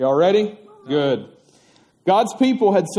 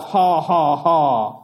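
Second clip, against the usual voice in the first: slow mock villain laugh, ha ha ha; terrible giant laugh; 3 semitones lower, slower than usual. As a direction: laugh like a storybook giant, hammed-up. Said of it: "he laughed his terrible laugh".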